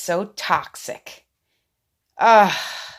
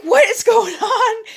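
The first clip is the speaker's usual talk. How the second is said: much higher, louder, laughing through it; laughing disbelief; 9 dB louder than usual. Retold or imitated. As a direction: shriek it out half laughing. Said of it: "I'm like".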